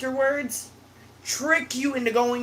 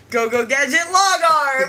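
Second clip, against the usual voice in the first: mock gadget command, rising louder; cartoon gadget call; 3 semitones higher, 5 dB louder than usual. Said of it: "I went".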